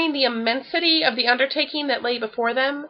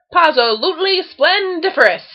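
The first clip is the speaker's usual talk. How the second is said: higher, louder pleased purr; 6 semitones higher, 4 dB louder than usual. A narrator's reading. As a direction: savour his own work. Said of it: "Tigger purred".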